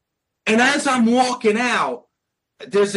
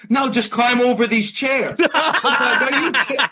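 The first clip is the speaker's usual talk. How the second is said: high, laughing "are you serious"; half-laughing, can't believe what he's hearing; incredulous disbelief; 5 semitones higher than usual. Retold or imitated. Disbelief at security's absurd order.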